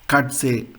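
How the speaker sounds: "Katze" said "KAT-seh"; pronuncia tedesca. Shown as a demonstration. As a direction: say "Katze" with ts and final eh. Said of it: "famous German was".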